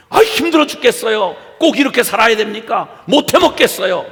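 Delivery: mock irate grumbling, rising toward the end; acted fed-up outburst, moderately heated; angry complaint. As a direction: imitate people snapping back at God. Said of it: "라고 막 화를 내고".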